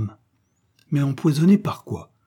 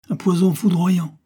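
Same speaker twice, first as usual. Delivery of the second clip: "poison foudroyant" much louder and higher; dramatic exclamation; 7 semitones higher, 5 dB louder than usual. A narrator's reading. Chemists revealing the deadly poison to the widow, dramatic. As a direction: build to a dramatic peak on "foudroyant".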